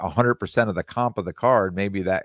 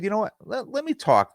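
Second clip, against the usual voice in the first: self-talk. Retold or imitated. Retold thinking out loud.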